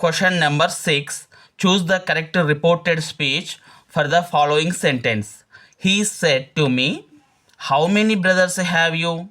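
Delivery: slow, careful reading of the exam question; deliberate classroom dictation pace; slow quiz reading. Acted. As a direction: read each word out slowly like a teacher dictating. Reads the quiz question aloud.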